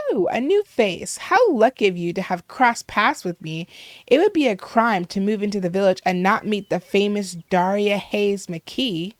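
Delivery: lightly voiced self-important celebrity; stuck-up villager. Famous villager greets a new face, mildly self-important. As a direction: introduce yourself as if they're lucky to meet you.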